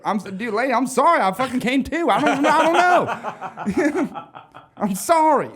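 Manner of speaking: put-on waking drunk apologizing to the barmaid, laughing; laughing apology. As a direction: apologize while cracking up. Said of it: "I was like".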